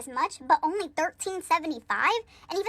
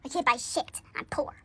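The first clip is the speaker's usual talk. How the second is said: whispering. Real, not acted. Whispered aside.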